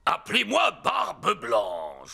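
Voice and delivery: pirate voice. Acted. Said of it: "déguisé en pirate".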